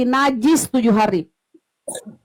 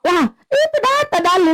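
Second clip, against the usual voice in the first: much higher, jumps up on data; heated insistence; 6 semitones higher than usual. Real, not acted. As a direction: push back, voice leaping up. Insists it's scripture, heated debate. (nada tinggi menegaskan)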